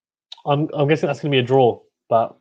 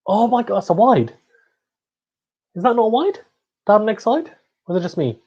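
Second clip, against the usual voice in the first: incredulous protest; 7 semitones higher than usual. Real, not acted. Disputing a missed wide call.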